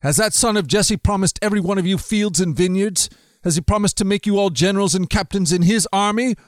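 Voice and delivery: angry king. Acted. Saul accuses his officers, a lightly acted angry rant. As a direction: demand answers from disloyal men. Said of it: "Saul shouted to his officers".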